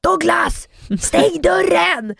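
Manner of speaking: high, drawn-out yell through the house; calling out. Retold or imitated. Mother calling out to Douglas from the kitchen, calling out. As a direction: call to Douglas to shut the door. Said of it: "så ropar jag så här".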